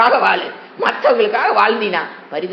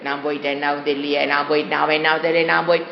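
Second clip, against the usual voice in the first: mock lament; 6 semitones lower, faster than usual. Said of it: "அது மாதிரி புலம்புவாங்க".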